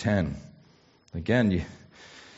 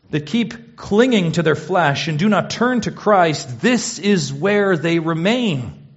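raised, urgent pulpit voice; intense preaching; 6 semitones higher, 4 dB louder than usual. Acted. Preacher warning listeners who keep clinging to flesh, urgent. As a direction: press the warning on the congregation. Preaching on remaining under wrath.

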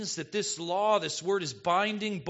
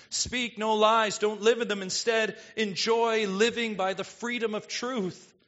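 fervent preaching; 5 semitones higher, 4 dB louder than usual. Real, not acted. Preaching at full force.

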